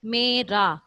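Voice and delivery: میرا split as may-raa, long vowels; teacher sounding out میرا by syllable; sounded-out syllables. Shown as a demonstration. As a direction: draw out the ay in میرا, then raa. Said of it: "میرا میں".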